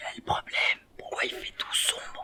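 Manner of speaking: hushed voice. Asking why it is all dark: whispering. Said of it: "Vous allez arrêter de chuchoter".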